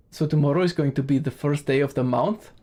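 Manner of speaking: Romanian accent, "month" said with an "ow" vowel as "mounth"; Transylvanian vowel shape. Shown as a demonstration. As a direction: demonstrate Transylvanian English, "month" rhyming with "south". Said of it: "they have this interesting vowel shape".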